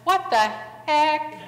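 high, loud mock shock; imitated startled yelp of protest; retold startled outburst. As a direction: act out being jolted awake. Retold startled reply on waking.

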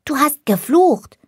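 put-on high child's voice, scandalised; a small boy catching a grown-up swearing; boy scolding his uncle for cursing, high childlike; shocked little boy. A narrator's reading. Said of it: "starrte ... entsetzt zu uns hoch".

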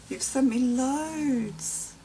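high, loud, drawn-out exclamation; slow, soaring cry of surprise; amazed delight. Real, not acted. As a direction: stretch it out in happy astonishment. Amazed by amount of gifts.

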